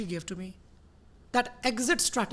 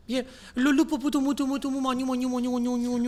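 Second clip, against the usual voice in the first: mock baby talk; faster than usual. Mocking clingy baby-talk lover.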